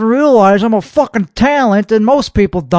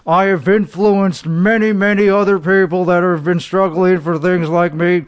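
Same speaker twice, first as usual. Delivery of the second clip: lightly put-on show host voice; 2 semitones lower than usual. Host opening his own show in a mild pompous voice. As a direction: introduce yourself like a self-serious host.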